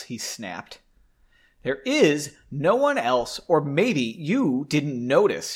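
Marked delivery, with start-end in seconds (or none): 1.6-5.5 1 slow gritted delivery. Shown as a demonstration. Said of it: "through gritted teeth".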